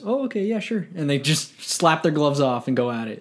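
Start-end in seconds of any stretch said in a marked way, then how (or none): 0.0-0.9 imitating a hockey player. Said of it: "He goes".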